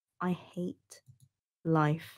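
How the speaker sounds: quiet, soft voice. After stumbling over a sentence again, the speaker says to themselves, softly.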